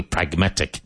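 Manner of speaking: "Pragmatic" with a clearly sounded G; strong middle G. Shown as a demonstration. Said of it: "Strong G in the middle".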